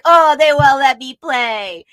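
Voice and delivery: slow, pouting whine; moping little sidekick; sulky kid. Retold or imitated. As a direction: drag it out like a left-out child. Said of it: "And then he's like".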